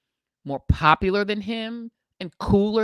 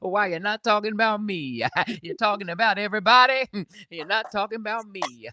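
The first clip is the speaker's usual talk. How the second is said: voice of Jesus. Acted. Scolding the podcaster as Jesus, in a preachy voice. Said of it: "He said".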